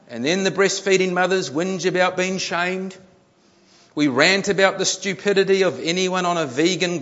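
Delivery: emphatic reading to an audience; article read-aloud. A narrator's reading. Preacher reads a news article to the congregation, emphatic read-aloud. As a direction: read it out with punch.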